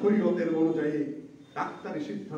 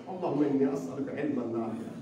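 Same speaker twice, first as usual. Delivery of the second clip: recited dua; 2 semitones lower than usual. Shown as a demonstration. Preacher showing listeners which dua to read, recited. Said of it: "এই দোয়াটা পাঠ করতে হয়".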